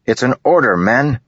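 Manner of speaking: high, loud order; firm command. A narrator's reading. Kaladin ordering hesitant men, loud command. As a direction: settle it with authority.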